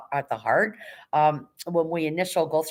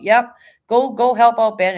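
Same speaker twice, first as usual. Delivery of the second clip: excited; 7 semitones higher, 9 dB louder than usual. Real, not acted. Hyping viewers to support Ben.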